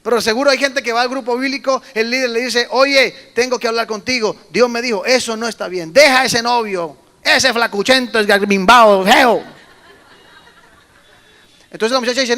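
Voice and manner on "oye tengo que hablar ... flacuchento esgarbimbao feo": loud scolding leader voice, pushed louder; a leader scolding a girl over her boyfriend; mock stern leader. Church leader mockingly scolds a young woman, loud. Pastor voicing a leader's rebuke.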